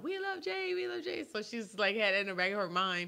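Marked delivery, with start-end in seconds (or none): 0.0-1.3 put-on very high, raspy, rough shouting. Recounting yelling out while she went over each film review, retelling a yell. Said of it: "I was just yelling out".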